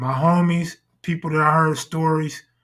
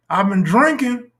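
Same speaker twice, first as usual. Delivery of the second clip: higher voice, excusing herself; high excuse voice; 5 semitones higher than usual. Retold or imitated. Acting drunk woman pleading.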